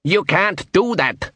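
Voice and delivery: high, slow, mild shout; shouted objection. A narrator's reading. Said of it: "shouted the dwarf".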